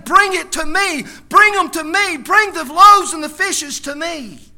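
loud, high, slow commanding call; God asking for the loaves, loud and slow. Acted. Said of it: "God's saying".

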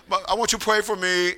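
softly imitated prayer request; Denny's prayer request. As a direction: imitate a simple young man asking for prayer, softly. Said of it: "Denny always gave a testimony".

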